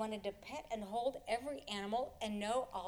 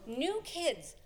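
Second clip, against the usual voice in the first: excited call; 5 semitones higher than usual. Acted. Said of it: "called out excitedly".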